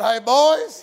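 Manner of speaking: loud call across the water; calling out to boys. Retold or imitated. Jesus hollers to the fishermen from shore, a loud call. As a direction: holler it out to the boat. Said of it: "He hollers at him".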